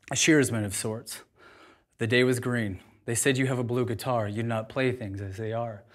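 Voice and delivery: poem recitation. Acted. Speaker recites poem to audience, measured reading. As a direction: recite each line with weight, lingering.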